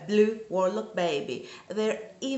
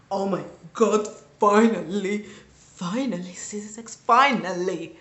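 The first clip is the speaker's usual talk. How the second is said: excited; 2 semitones lower, 5 dB louder than usual. Retold or imitated. Reenacting joy at the reading.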